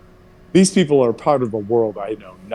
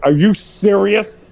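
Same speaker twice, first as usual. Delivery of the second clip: mock incredulous mom; 9 semitones higher, 4 dB louder, slower than usual. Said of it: "she's like".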